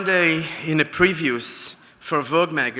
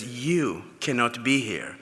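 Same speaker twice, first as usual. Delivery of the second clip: cold refusal; 3 semitones lower, 5 dB quieter than usual. Retold or imitated. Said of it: "that maitre d' looked at me and says".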